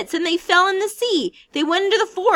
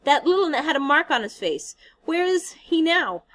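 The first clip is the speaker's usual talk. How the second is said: high, louder fearful insisting; anxious pleading; 7 semitones higher, 8 dB louder than usual. Acted. Piggy clinging to the rock, asking fearfully. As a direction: beg them to answer.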